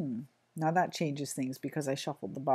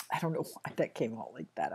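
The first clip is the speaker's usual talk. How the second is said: laughing; 7 semitones lower, 5 dB quieter than usual. Real, not acted. Laughs at her own phrasing.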